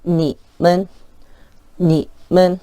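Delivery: 님 dips and rises slightly, 은 light and short; third then neutral tone. Shown as a demonstration. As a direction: dip on 님, clip 은 lightly. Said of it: "내려갔다가 살짝 올라온다".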